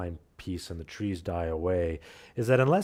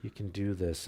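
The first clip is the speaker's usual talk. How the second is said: soft, coaxing push, fading quieter; coaxing a tired daughter up the trail, soft and gentle; gentle encouragement; 4 semitones higher, 5 dB quieter than usual. Retold or imitated. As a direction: urge a tired child on gently. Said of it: "give her sort of a gentle push".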